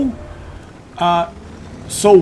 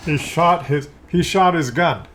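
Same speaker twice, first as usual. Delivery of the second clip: sarcastic; 3 semitones higher, slower than usual. Shown as a demonstration. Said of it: "you know I'm being kinda sarcastic".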